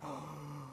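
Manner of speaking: quiet, acted gasp of fright; shocked gasp. Driver just parked after the chase, shaken gasp. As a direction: suck in breath as if in shock. Retelling shaking in fear afterwards.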